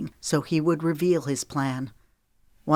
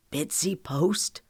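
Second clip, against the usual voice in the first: stunned disbelief; slower than usual. Acted. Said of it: "he uttered, not quite believing his eyes".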